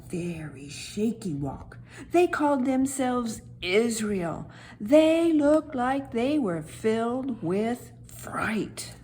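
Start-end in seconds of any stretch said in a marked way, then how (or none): 4.8-8.9 slow, scared whisper; fearful whisper. A narrator's reading. Narrator shares the Israelites' fright in a slow whisper. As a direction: whisper it slowly as if afraid yourself.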